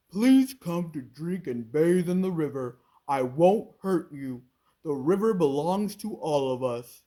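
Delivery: loud crocodile waving it off; booming, grateful no. A narrator's reading. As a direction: crocodile refusing his old tooth. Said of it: "he said".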